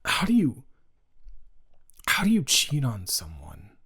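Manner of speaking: hushed outraged whisper; whispered disbelief. Real, not acted. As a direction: breathe it out in disbelief. Outraged aside about cheater.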